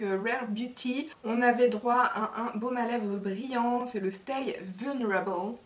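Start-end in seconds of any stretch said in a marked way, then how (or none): 4.1-5.5 clumsy French-English accent on Stay Vulnerable; bad English accent. Real, not acted. Vlogger reading an English product name, bad English accent. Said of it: "Quel accent anglais pourri".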